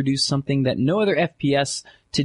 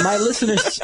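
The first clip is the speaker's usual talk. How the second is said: Jack Bauer; 7 semitones higher than usual. Acted. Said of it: "My English Jack Bauer voice".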